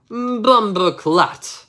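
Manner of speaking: hammed-up yell of the man; screamed. The man shat on by the cat, mock scream. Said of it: "while he screamed".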